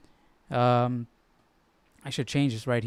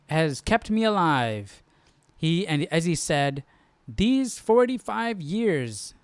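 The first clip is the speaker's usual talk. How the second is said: scripture reading. Acted. Reads scripture passage aloud.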